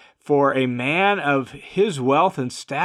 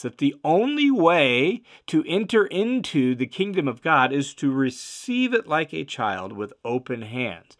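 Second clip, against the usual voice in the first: ordinary talk, nothing marked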